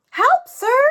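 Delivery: high, loud call. A narrator's reading. Jack calling from the hole up to the stranger. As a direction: shout up to the stranger.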